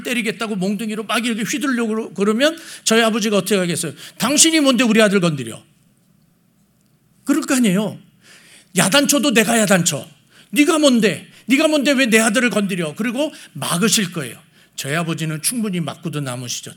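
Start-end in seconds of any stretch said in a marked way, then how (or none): 4.2-5.6 mock indignant father, a bit raised; acted angry challenge. Father standing up to the neighbour for his son, acted indignation. 8.8-13.0 indignant protective father, pushed up in pitch; acted angry challenge. Father telling the neighbour to leave his son alone, acted indignation.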